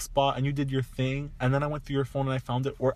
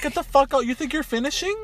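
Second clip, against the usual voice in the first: high, loud mock-furious rant; angry outburst; 12 semitones higher, 6 dB louder than usual. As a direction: throw them out, incredulous and loud. Acting out kicking the intruder out.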